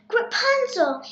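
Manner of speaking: high, calling out for her; storybook yell. A narrator's reading. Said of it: "even when he yelled".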